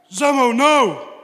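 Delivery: a stretched, loud cry of Zamo, no; hammed-up TV schoolboy pleading loudly; Roland impression. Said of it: "It's a good impression, is it?".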